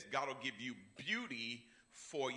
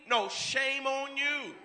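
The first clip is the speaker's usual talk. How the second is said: high, loud, slow "No, shame on you." with a falling finish; emphatic rebuke; 9 semitones higher, 6 dB louder, slower than usual. Acted. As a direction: slam "No, shame on you." down slowly at the devil. Turning shame back on the devil.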